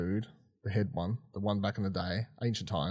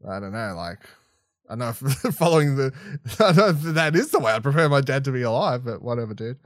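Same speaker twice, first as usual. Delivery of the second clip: laughing mock quote; 4 dB louder than usual. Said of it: "Bo-Katan's like".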